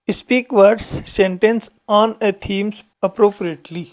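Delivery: very slow, every word separate; slow reading aloud. Shown as a demonstration. Teacher reading the worksheet title to students, very slow. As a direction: read it out word by word.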